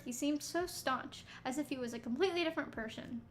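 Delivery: slurred, tired reading; words running together, slurring. Real, not acted. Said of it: "like, slurring my words".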